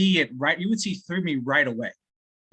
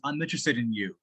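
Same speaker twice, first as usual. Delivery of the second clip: unconvincing, uninterested claim of interest; resigned and cynical; 3 semitones lower, 3 dB quieter than usual. Shown as a demonstration. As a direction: say it without meaning it. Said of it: "someone like that says".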